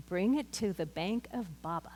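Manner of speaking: put-on light Polish accent, grandmotherly; lightly put-on Polish accent. Preacher imitating her Polish grandmother Baba, light Polish accent. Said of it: "she said it with her good Polish accent".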